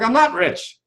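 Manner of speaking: inner voice. Retold or imitated. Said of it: "and like".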